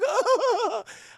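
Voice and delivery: high, loud wailing cry; mock wail. Anna rejected by her mother, mock wail. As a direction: let out an exaggerated sob.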